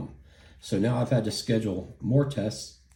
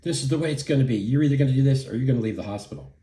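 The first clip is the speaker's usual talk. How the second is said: raised, higher imitation of yelling; retold yelling; 5 semitones higher, 4 dB louder, faster than usual. Staffer giving patient an ultimatum, retold raised yelling. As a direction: rattle off his yelled ultimatum, voice pitched up. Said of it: "So he starts yelling at me again".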